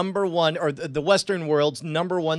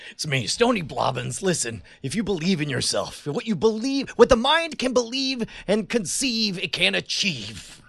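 mock guru. Stony Blobbins motivational speech.

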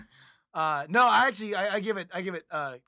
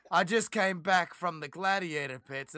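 Andrew; 3 semitones lower than usual. Acted. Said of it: "Andrew shows up and he's just like".

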